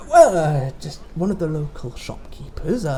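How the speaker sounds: sly mysterious shopkeeper. Acted. Toy seller replies.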